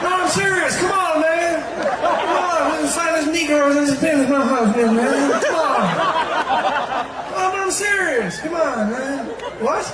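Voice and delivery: high, loud, insistent caricature; Joe Biden. Acted. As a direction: protest in a high, slurred-together ramble. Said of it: "He always does that weird mumbling thing".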